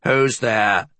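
wary hissing challenge; hissed. A narrator's reading. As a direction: hiss it into the dark. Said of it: "she hissed".

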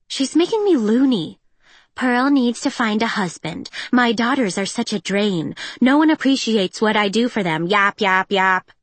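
nagging mother impression, lightly voiced; mocking mother. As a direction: mimic a nagging mom. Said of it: "in mockery of her mother".

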